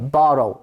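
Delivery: "borrow" as a low, falling pronunciation example; pronunciation model. Shown as a demonstration. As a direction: model "borrow" with the -orrow of tomorrow. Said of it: "이렇게 읽어야 돼".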